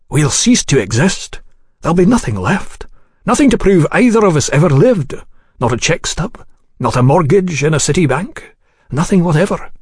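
lightly voiced anxious official, pitch swooping up; frightened official. Frightened diner foreseeing being erased, mildly despairing. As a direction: let dread creep into each item.

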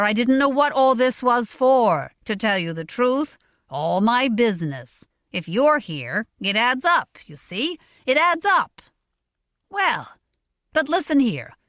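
animated father, voice swinging high on key phrases; lightly voiced, effusive older tradesman; hearty father, pleased. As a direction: talk it out eagerly to your son.

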